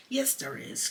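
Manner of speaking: صيحة قوية عالية; crying out. A narrator's reading. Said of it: "cried Peter".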